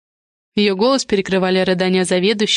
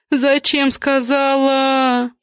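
very slow, higher, sobbing lament; 6 semitones higher, much slower than usual. A narrator's reading. The head of department sobbing over her words, very slow and higher. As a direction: drag the words out through sobs. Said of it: "схлипывая".

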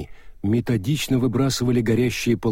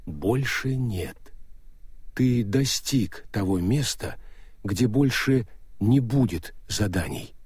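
Death's voice; 3 dB quieter than usual. Acted. Death answers.

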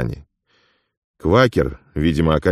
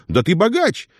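much higher, excited exclaiming; amazed; 13 semitones higher than usual. Acted. Afonya marvels at Ilya's money, excited and high. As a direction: marvel at the pile of coins.

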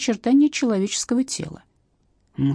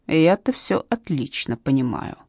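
sullen; 2 semitones lower, slower than usual. Acted. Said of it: "ещё больше насупилась Матросова".

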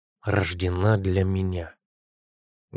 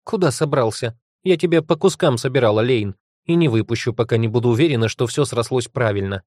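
snarling; 2 semitones higher, 3 dB louder than usual. Acted. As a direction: growl it at him, scolding. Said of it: "и рыкнула".

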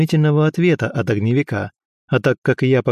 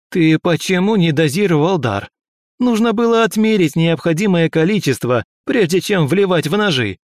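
higher, raised scolding shout; angry yell; 6 semitones higher than usual. Acted. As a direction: bawl out the student. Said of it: "заорал огневик".

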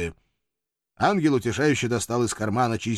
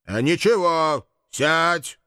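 sharp raised "sit down"; 6 semitones higher, 5 dB louder, much slower than usual. Acted. Demon orders angel to sit down, raised voice.

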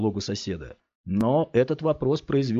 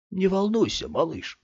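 excited; 10 semitones higher than usual. Acted. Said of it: "выдав голосом своё возбуждение".

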